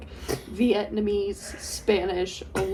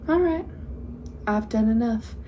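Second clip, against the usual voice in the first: Southern accent. Shown as a demonstration. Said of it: "Why are you Southern?".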